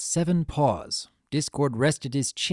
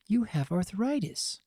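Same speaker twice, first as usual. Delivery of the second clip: level; 7 semitones higher, 5 dB quieter than usual. Acted. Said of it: "in a level voice".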